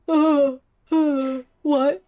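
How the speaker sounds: loud startled yelps at a strange reply; startled what. Real, not acted. Gamer blurts at a weird game line, loud startled. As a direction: jolt up and blurt it out loud, thrown.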